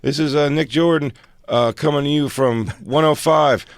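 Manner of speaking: high upbeat DJ patter; peppy station sign-off; radio DJ voice. Retold or imitated. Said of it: "He goes".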